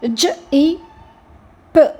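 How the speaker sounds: "జ, ఈ, ప" as three separate sounds; sounded out. Shown as a demonstration. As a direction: spell "జ, ఈ, ప" by sound, pausing after each. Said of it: "వీక్ సౌండ్స్కి ఒక vowel సౌండ్".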